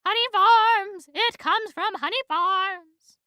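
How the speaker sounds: high, loud, slow terrified cry; high, slow, frightened yell of surrender; panicked confession. Acted. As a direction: blurt it out in terror. Terrified confession under threat.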